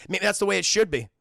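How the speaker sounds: lightly acted, smiling line; said with a smile. Streamer replays Anakin answering Padme, said with a smile. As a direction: say it through a smile. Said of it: "he smiles, he goes".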